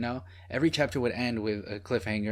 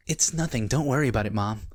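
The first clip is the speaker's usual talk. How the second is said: mock earnest PSA delivery, starting raised; drug PSA acting. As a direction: imitate stilted after-school PSA acting. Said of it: "acting feels like a drug P S A".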